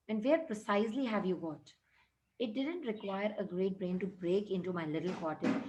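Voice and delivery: slow, deliberate reading of the English text; measured classroom read-aloud; story reading. A narrator's reading. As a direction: read each word out carefully for the class. Reads English story lines aloud.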